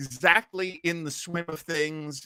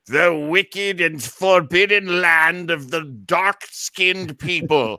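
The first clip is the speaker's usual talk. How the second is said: mock ominous; 2 semitones higher, 6 dB louder, slower than usual. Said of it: "you know".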